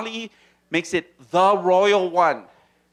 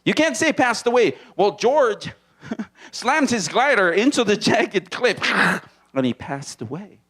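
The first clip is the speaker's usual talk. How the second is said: laughing; 2 semitones higher than usual. Acted. Mock correction with laughter.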